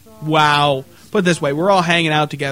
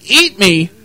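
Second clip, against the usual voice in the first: mock scream; 7 dB louder than usual. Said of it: "Starts screaming".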